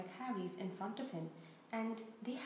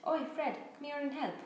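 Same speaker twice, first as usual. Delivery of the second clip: calling out; 4 semitones higher, 4 dB louder than usual. Acted. Twin calls brother across platform.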